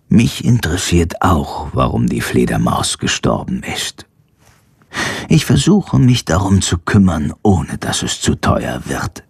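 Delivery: leicht tiefere, ruhige Arztstimme; ruhiger Tierarzt. Acted. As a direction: sachlich wie ein Tierarzt. Tierarzt spricht, tiefere Stimme. (ruhige, tiefere Arztstimme)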